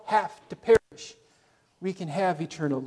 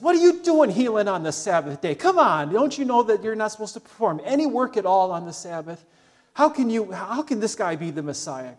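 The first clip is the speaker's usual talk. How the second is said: indignant mock Pharisee, raised and louder at first; grumbling Pharisee; 4 semitones higher, 4 dB louder than usual. Preacher voicing Pharisees scolding Jesus, indignant. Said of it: "grumbling against Jesus".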